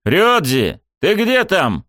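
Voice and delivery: calling to a friend far off. A narrator's reading. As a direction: shout for him across the room. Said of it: "позвал я".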